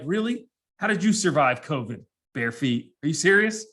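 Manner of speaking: incredulous. Acted. Imagined rebuke to barefoot passenger.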